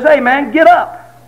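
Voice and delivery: slow, prodding wife voice; nudging a lazy husband awake; wife urging husband out of bed, mock nagging; wife rousing him.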